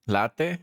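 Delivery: LAH-teh, Spanish vowels; Spanish latte. Shown as a demonstration. Explaining to a friend how Spanish reads latte, Spanish pronunciation. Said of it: "Latte is actually pronounced exactly".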